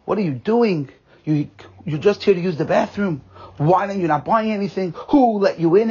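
retold angry yelling. Head waiter scolding a man who used the bathroom, retold angry yelling. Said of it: "head waiter starts yelling and screaming".

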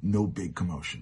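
usual speaking voice

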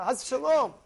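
usual speaking voice

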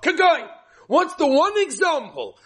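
laughing out loud; laughing exclamation. Real, not acted. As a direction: burst out laughing.

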